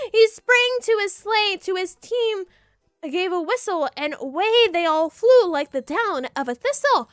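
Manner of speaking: rhythmic read-aloud of the poem; story narration. Acted. Streamer reading the poem to chat, storyteller voice. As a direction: lilt through the verse.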